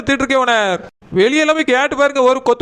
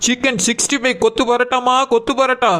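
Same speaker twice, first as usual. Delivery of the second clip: singsong street hawker. Acted. Shop owner calling out to customers.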